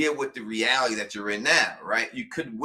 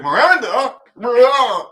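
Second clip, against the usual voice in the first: calling out; 10 semitones higher, 11 dB louder than usual. Pretend. Drunk Henry calls to his wife.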